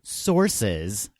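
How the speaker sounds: "Sources" set apart in audible air quotes; "Sources," drawn apart with skeptical emphasis; air-quoted SOURCES. Real, not acted. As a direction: hold up "Sources" as a dubious label. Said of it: "again, I'm doing air quotes".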